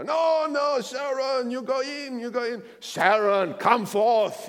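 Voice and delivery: put-on high shouted Jewish accent calling out; imitating an old man's thick Jewish accent. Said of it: "he spoke with this thick Jewish accent".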